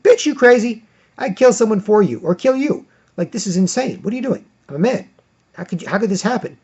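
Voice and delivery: put-on an offended boy shouting his shock; shocked outrage. Voicing the boy's shocked thoughts.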